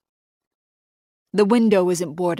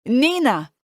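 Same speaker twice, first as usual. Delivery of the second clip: loud call of her name through a door; 7 semitones higher, 5 dB louder than usual. Acted. Enzo pounding on the attic door, calling out loud. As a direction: shout her name so she hears you.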